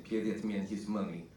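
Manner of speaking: lightly done mock Russian accent; John Malkovich. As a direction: toss off a Russian-accented movie quote at everyday volume. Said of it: "with, uh, John Malkovich".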